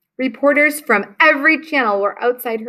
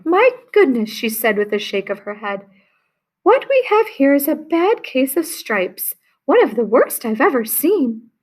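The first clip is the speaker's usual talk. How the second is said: put-on higher old lady voice, lightly done; kindly old woman; 4 semitones higher than usual. Old woman diagnosing Camilla's stripes, lightly sweet. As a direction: tut over the case like a grandma.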